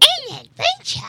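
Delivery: very high, loud, squeaky cry. A speaker describes what Toad always says before a level starts, in Toad voice. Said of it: "Toad sagt, bevor das, das Level losgeht, immer".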